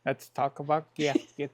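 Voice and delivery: playful lisp on the s sounds. Pretend. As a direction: lisp your way through it. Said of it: "Now you got the lisp".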